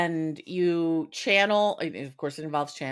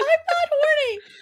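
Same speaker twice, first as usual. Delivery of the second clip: put-on screaming, higher and louder, full volume; 6 dB louder than usual. Acting out being chased around a store: fake screaming at the top of lungs. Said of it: "I'm screaming at the top of my lungs".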